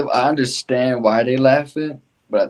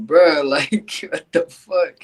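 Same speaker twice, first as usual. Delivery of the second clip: laughing; 6 semitones higher, 3 dB louder, slower than usual. Retold or imitated. Laughing at the driver's tour.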